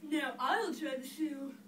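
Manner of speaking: slow, loud demand; drawn-out yelled announcement; yelling. Acted. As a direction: call out each word insistently. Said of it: "who yelled".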